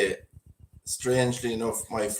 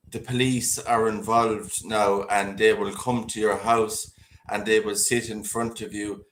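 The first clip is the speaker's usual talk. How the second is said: slow, lowered imitation of fake American; mock-American caller, measured and ominous; bad American accent; 3 semitones lower, slower than usual. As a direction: warn slowly in a put-on American accent. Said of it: "this, the worst American accent ever".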